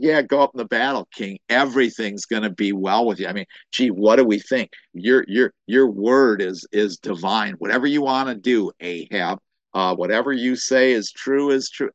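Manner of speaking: mock-agreeable flattery, quick off the mark; sarcastic. Micaiah humoring King Ahab before battle, sarcastic. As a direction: lay on the sarcastic agreement, lightly acted. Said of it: "he's very sarcastic".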